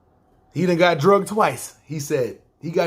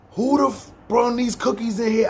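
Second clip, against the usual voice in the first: higher-pitched mock yell of outrage; retold angry yell; 5 semitones higher than usual. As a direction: imitate a boss yelling from the kitchen. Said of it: "She's in there screaming".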